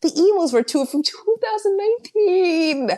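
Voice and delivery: exasperated emphasis. Real, not acted. Exasperated repeat of date.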